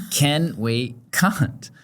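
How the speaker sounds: put-on slow, drawn-out kid's question; toddler's request. Mother imitating her toddler on the toilet, slow and drawn out. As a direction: slowly spell out what the little boy kept saying. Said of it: "he keeps going".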